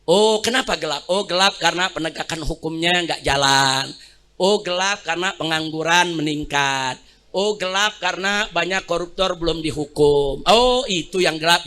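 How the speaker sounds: a touch of a reasonable official; patient official. Retold or imitated. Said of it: "mestinya pejabat undang mahasiswa tanya".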